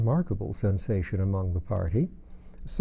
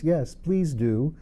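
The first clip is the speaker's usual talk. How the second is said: chorus; 4 semitones higher, much slower than usual. A narrator's reading. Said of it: "joined in chorus".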